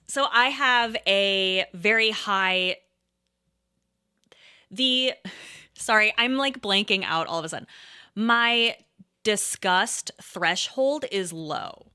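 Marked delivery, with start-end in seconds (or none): 0.1-5.1 slow, stretched words with long pauses; searching haltingly for the safe word; halting, avoiding queasiness. Real, not acted. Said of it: "the reason I'm pausing a lot". 8.1-11.9 slow and drawn out, choosing each word; measured, hesitant pacing; halting, careful. Real, not acted. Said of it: "trying to talk around it".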